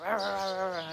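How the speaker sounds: mild mock snarl; half-hearted growly "rah rah" noises; imitated dog snarling. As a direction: lightly imitate two dogs snarling. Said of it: "snarling at each other".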